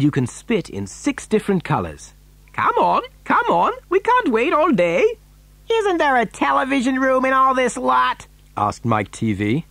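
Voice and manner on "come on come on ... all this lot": put-on high, pestering child's voice; impatient boy. A narrator's reading. Mike demanding a television room, high and impatient.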